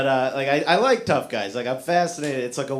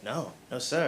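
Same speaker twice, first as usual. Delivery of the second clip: timid denial; 3 semitones lower, 6 dB quieter than usual. Retold or imitated. Nervous answer to state trooper.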